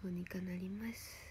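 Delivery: soft breathy whisper. Real, not acted. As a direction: whisper it reassuringly. Soft reassurance after "I dunno.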